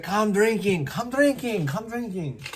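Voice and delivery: high coaxing mock invite; inviting. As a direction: lure him with a high chant. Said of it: "He's like".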